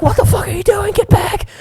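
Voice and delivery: high, strained mock shout; retold yell. Brother in canoe to swimming puppy, frantic yell. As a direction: holler as if across the water.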